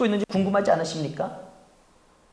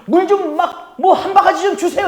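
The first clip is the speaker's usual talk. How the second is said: mock casual request; 7 semitones higher, 4 dB louder than usual. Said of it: "이것도 아니에요".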